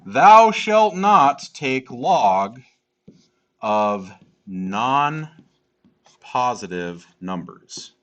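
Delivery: slow solemn decree; biblical proclamation. Acted. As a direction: proclaim it from the mountain.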